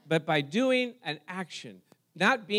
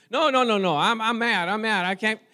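mock mad; 3 semitones higher, 5 dB louder than usual. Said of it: "I started getting happy".

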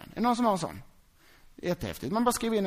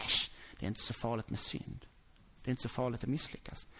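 offhand dismissal; 8 semitones lower, 9 dB quieter than usual. Acted. Mocking the careless attitude.

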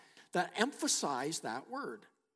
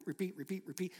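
stuck on repeat; 6 dB quieter, faster than usual. Acted. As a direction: mimic a skipping record. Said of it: "we get stuck on repeat".

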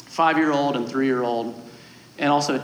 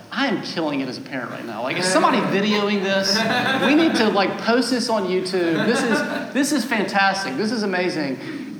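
proud parent glee; 3 semitones higher than usual. Retold or imitated. Parent marvels at his own parenting, laughing and gushing. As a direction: gush like a proud parent killing it.

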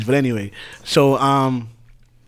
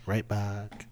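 softer, smooth sexy voice; 7 dB quieter than usual. Acted. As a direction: ease into a sexy voice. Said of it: "notice he put on his sexy voice again".

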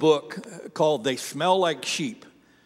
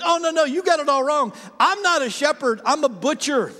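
matter-of-fact correction; 8 semitones higher, 3 dB louder than usual. Retold or imitated. Shepherd correcting the tour guide.

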